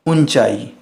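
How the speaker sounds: "ऊंचाई" with a full n, oon-chai; wymowa z anuswarą. Shown as a demonstration. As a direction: sound the n in "ऊंचाई". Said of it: "इसका सही उच्चारण होगा".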